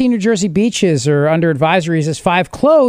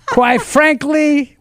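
Cuomo impression; 4 semitones higher than usual. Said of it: "my Andrew Cuomo".

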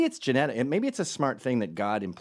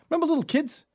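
high, loud bad comedian impression; Bill Burr; 7 dB louder than usual. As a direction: ham up a bad impression of a brash comic. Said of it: "Bill Burr has a bit".

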